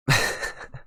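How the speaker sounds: short voiceless laugh; brief laugh at own joke. Real, not acted. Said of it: "I don't know why I'm laughing there".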